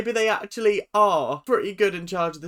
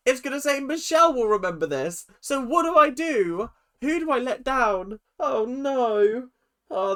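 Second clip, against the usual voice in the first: panicked; 4 semitones higher, 4 dB louder than usual. Pretend. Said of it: "And he's like".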